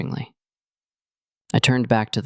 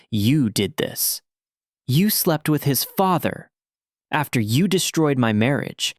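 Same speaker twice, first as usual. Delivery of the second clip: rising anger; 3 semitones higher than usual. Acted. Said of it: "my voice rising".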